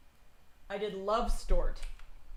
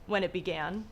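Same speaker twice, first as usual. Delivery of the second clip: dramatic story reading. A narrator's reading. Reads Lovecraft story aloud.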